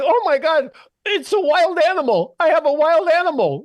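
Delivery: high-pitched panicked mock scream. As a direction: act out a woman shrieking, played for laughs. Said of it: "she starts screaming".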